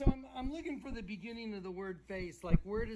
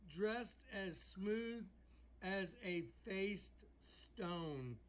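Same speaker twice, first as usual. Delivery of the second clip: slow reading; 4 dB quieter, much slower than usual. Shown as a demonstration. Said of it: "It says".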